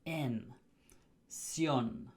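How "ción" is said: "Ción" as one stressed syllable, s-yon, falling; Spanish -ción ending. Shown as a demonstration. Teacher shows learners the Spanish ending, Spanish pronunciation of "Ción". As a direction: say "Ción" as Spanish "syon", with a crisp s. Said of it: "they end in C I O".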